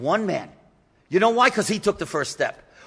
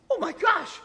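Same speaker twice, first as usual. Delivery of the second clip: panicked thought; 8 semitones higher, 3 dB quieter than usual. Retold or imitated. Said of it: "she thinks".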